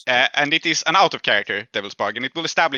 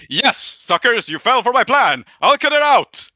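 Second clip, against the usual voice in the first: higher and louder gloating taunt; gloating villain; 9 semitones higher, 6 dB louder, slower than usual. Acted. GM voices the captive gloating at the players, smug and loud. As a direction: crow over his trick. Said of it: "he goes like".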